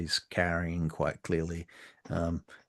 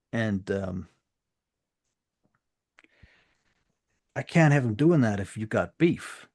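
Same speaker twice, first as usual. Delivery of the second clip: cold gang boss warning; 4 semitones higher, 8 dB louder than usual. Acted. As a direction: lean on every word. Sex Money explaining.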